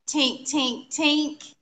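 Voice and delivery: metallic tink sounds; imitated tinking. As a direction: voice small tinks, one after another. Imitating noise heard in the room.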